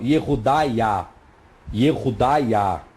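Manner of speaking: Yehudaiah spelled out slowly and low, ending in ia; Aramaic pronunciation. Shown as a demonstration. Teacher modelling the Aramaic name Yehudaiah for the class. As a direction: say Yehudaiah syllable by syllable. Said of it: "É a forma em aramaico".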